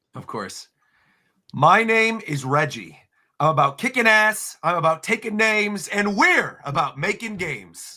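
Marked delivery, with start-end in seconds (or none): 1.6-8.0 very slow, deliberate, every word drawn out. Reading a classic quote on request, imitating Reggie Fils-Aimé. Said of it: "you said it just like he said it actually at E three".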